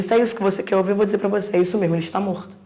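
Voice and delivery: loud, forceful confirmation; retold blunt doctor. Doctor confirming a death to the mother, blunt and loud. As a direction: hammer it home loudly, imitating the doctor.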